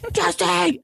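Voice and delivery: high-pitched mock yell, drawn out; imitation of a man hollering; imitated screaming. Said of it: "this guy was screaming into a backyard".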